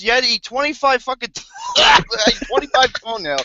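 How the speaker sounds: shouting through laughter; laughing shout. Real, not acted. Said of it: "make me wanna gag".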